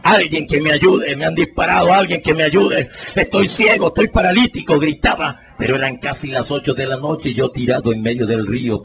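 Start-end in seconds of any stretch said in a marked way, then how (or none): 0.0-4.8 grito pidiendo ayuda, más agudo al final; gritos de auxilio. Retold or imitated. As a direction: grita por la ventanilla con angustia. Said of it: "empecé a gritar por la ventanilla". (herido grita desde el carro pidiendo ayuda, gritando)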